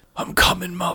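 weepy, tearful, fading orc voice. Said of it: "He sheds a tear and he says in Orcish".

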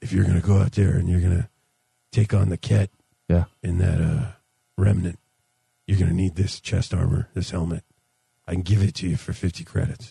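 deep, rough alien voice. A big snouted alien offers armor to players for credits; Nick Nolte voice. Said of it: "I want to hear Nick Nolte, like, voice with a big snouted alien".

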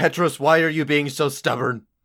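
very loud, high-pitched yell at full force. Retelling how she kept yelling at Petros while pushing, imitating her yelling at Petros. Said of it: "she's still yelling like".

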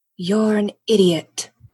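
whispered delivery. Voicing a character sneaking up on a companion: whispering. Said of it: "she just whispers".

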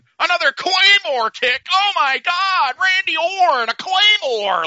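shrill, loud, high frenzied announcer yell. Retelling watching wrestling alone and screaming: horrible Michael Cole impression. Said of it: "the horrible Michael Cole impression".

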